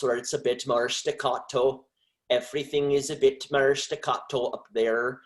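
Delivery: slightly staccato Welsh accent. Shown as a demonstration. Demonstrating how accents differ, staccato Welsh accent. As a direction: give it a choppy Welsh rhythm. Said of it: "if you go over to Wales".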